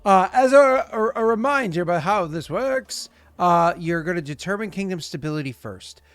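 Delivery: high, loud and bright; excited. Real, not acted. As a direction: burst in with energy. GM jumps loud after matching.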